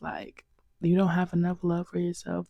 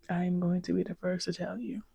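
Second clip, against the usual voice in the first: whispering; 6 dB quieter than usual. Real, not acted. Confiding a hard truth.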